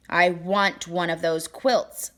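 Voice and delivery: slow demand. Acted. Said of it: "the king demanded".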